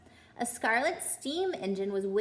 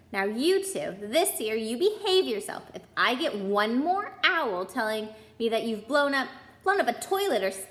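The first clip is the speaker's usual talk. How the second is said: stern warning; 4 dB louder than usual. Acted. Mother scolds the twins.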